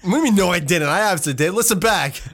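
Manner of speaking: indignant mock announcer; radio voice. Host arguing with co-host, still in radio voice. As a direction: insist while staying in DJ character. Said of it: "still doing the radio voice".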